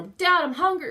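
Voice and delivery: put-on child voice. Voicing small child whining.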